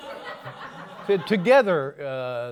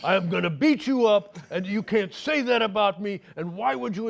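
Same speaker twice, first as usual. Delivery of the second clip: retold rant; 5 semitones higher than usual. Tarantino threatens the host on the phone, mock angry. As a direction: rant like a furious caller. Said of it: "on and on and on".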